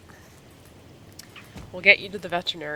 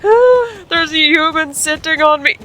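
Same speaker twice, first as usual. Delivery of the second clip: much higher, louder squeaky dog voice; 10 semitones higher, 11 dB louder, slower than usual. Retold or imitated. Bonnie the dog protesting at the rider, high panicked squeal. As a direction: squeal it like a frightened little dog. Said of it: "She's like".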